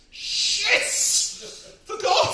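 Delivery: high, loud burst of alarm; hammed-up panicked shout; panicked yelp. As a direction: blurt it out like you've been caught. Caught out by anniversary.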